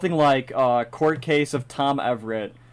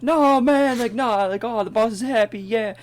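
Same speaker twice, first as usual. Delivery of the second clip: higher, lightly voiced bystander; background character voice; 8 semitones higher than usual. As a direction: toss off a side character. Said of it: "all those background voices are him".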